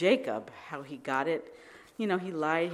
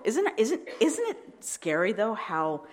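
laughing; 5 semitones higher, 4 dB louder, slower than usual. Real, not acted. Laughing at her own question.

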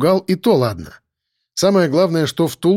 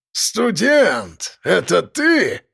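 surprised; 4 semitones higher, much slower than usual. A narrator's reading. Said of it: "вытаращился на меня Силантий".

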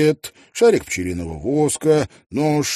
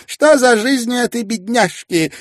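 put-on much higher, louder lively elderly lady; Mrs Wannop voiced; 9 dB louder than usual. Mrs Wannop refusing Tietjens the reins, lively and high. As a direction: playfully put the young man in his place.

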